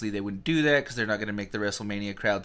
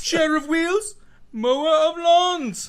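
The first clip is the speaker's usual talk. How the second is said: even higher, louder, slow sing-song; Skarsgård impression; 8 dB louder, slower than usual. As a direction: draw the words out grandly. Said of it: "Skarsgård making his appearance".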